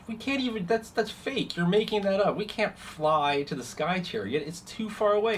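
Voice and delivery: high, disbelieving shout; Varric shouting. Acted. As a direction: yell it like he's calling out a lie. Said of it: "shouts out".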